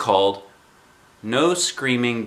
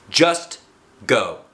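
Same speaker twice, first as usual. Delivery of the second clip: grouchy. Acted. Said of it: "she grouched".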